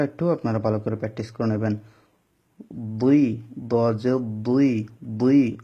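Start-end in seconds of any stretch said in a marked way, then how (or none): 2.7-5.6 বুই said thick and full in the mouth; heavy full-mouthed sound. Shown as a demonstration. Teacher models a heavy বুই for students. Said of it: "আওয়াজটা মুখের মধ্যে মোটা হয়ে উচ্চারণ হবে".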